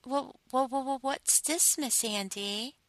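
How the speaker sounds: high, stammering "wha-, wha-" of a flustered sub; mock stutter. Mistress mocking her caught sub with a stutter. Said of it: "as you stutter".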